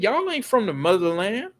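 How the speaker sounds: lightly mimicked African accent, in earnest; a touch of African accent, dead-serious challenge. African woman questioning their roots, dead serious, light accent. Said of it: "but she was dead serious".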